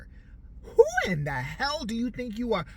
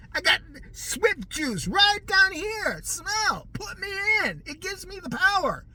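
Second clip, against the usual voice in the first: loud, slow, higher deranged boast; hammed-up raving player; mock yelling; 11 semitones higher, 6 dB louder, slower than usual. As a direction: crow it like a juiced-up lunatic. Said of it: "he was probably screaming that".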